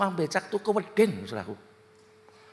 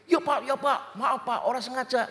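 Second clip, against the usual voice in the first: higher-pitched mock pleading; scared pedicab driver; 4 semitones higher than usual. Becak driver apologizing to the car owner, imitated fearful plea. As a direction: imitate a frightened man apologizing. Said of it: "Tukang becoknya takut".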